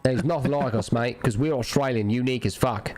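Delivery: put-on low, proud Aussie accent; proud Aussie banter; Australian accent. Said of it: "perfect Aussie accent".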